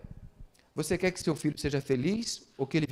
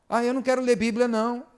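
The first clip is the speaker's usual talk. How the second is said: high, louder mock-child protest; refusing child; 8 semitones higher, 5 dB louder than usual. Child refusing to read the Bible, mock protest. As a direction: imitate a kid refusing.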